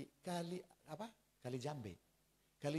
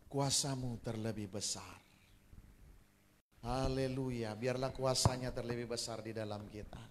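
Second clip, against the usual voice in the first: closing prayer; 4 semitones lower, 5 dB louder than usual. Acted.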